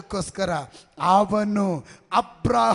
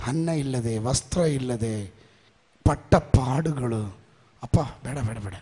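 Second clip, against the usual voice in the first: mock frightened refusal; 9 semitones lower than usual. Mimicking a fearful believer refusing.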